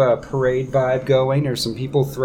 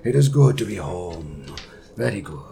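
Shushar, overjoyed; 4 semitones higher than usual. Acted. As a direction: savour each word in joyous relief, then ease down. Game master plays joyful Shushar.

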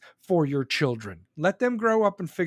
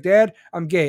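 son's voice; 8 dB louder than usual. Retold or imitated. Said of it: "he's like".

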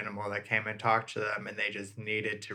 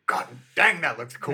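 excited hick voice; 5 semitones higher, 7 dB louder than usual. Retold or imitated. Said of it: "He's just like".

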